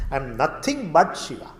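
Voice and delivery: firm stress on "nothing"; repeated line with "nothing" emphasized; emphasis on nothing. Shown as a demonstration. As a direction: lean on "nothing" to drive it home. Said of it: "To give that nothing".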